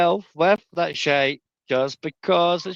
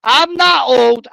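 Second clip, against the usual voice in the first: sarcastic; 5 semitones higher, 6 dB louder, much slower than usual. Pretend. Mocking repeat, louder slower.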